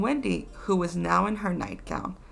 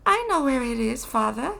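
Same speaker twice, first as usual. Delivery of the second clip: eager cry; 7 semitones higher, 3 dB louder than usual. A narrator's reading. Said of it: "Wendy cried".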